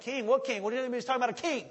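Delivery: mock-alarmed Romans, high and loud; a touch of panicked disbelief; freaking out. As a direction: play a rattled Roman soldier. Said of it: "They're freaking out".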